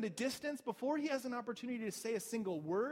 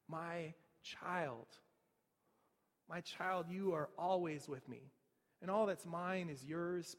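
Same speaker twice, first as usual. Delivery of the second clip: deep empathy; 3 semitones lower, slower than usual. Retold or imitated. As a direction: comfort him gently. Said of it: "like, with this deep empathy".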